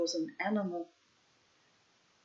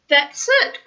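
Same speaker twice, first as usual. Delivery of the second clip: high, loud praise; God cheering Man loudly; cried out; 7 semitones higher, 11 dB louder than usual. A narrator's reading. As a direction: cheer him on. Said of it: "cried God".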